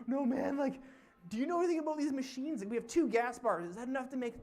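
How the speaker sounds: high, loud, fast panicky voice; imitating panicked driver. Imitating the panicked ATV driver asking about gas, high and fast. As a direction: gabble it like a frantic city guy. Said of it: "completely off the deep end".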